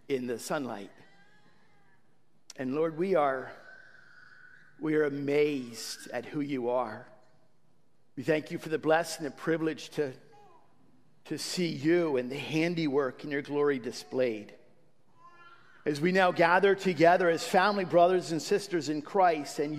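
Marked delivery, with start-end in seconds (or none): none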